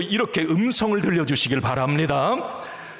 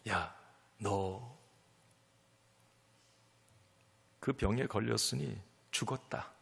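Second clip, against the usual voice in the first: devil's taunt; 5 semitones lower, 10 dB quieter than usual. Acted. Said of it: "마귀는 이렇게 우리에게 속삭여요".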